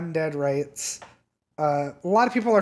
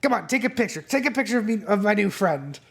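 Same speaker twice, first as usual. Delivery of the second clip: higher and cheerful, arm around a pal; happy dealer; 4 semitones higher than usual. Acted. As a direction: show off the new friend. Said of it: "and it's like".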